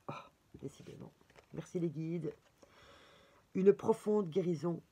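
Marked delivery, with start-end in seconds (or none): 0.1-2.3 breathy whisper under her breath; soft whispered surprise; whispered aside. Real, not acted. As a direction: mutter it to yourself, barely voiced. Whispered aside during card reading.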